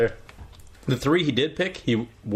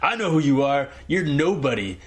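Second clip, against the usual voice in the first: bar heckler; 4 semitones higher than usual. Acted. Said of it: "let's act out the scene".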